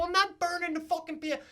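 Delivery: high, loud, disbelieving yell; retold loud refusal; incredulous shout. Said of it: "I go".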